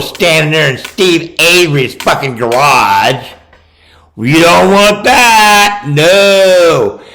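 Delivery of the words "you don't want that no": angry shout. Real, not acted. Angry rant at filmmakers.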